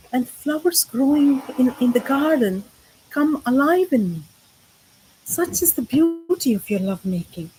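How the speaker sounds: love poem read in short, paused phrases; poem recital. Acted. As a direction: recite it phrase by phrase with lilting stresses.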